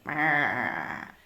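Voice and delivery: low grumpy brr; cranky grumble. Retold or imitated. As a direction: grumble like someone woken up. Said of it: "cranky whenever we wake you up and you're like".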